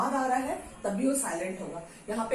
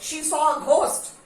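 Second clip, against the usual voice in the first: she saw a ghost, said very slowly; slow example sentence; 4 semitones higher, 5 dB louder, much slower than usual. Shown as a demonstration. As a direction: read the example slowly for the class. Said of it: "example sentence". (धीमे उदाहरण वाक्य)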